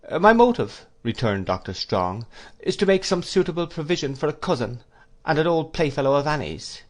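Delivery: a hint of a gentle elderly scholar; mildly voiced absent-minded headmaster; lightly voiced kindly old doctor. Doctor Strong to Wickfield about a cousin, lightly voiced.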